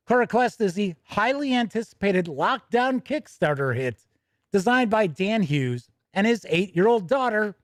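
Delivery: upbeat, brisk product-news read; a bright announcer reading the release. Acted. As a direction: present it like a news anchor. Reads the product news item.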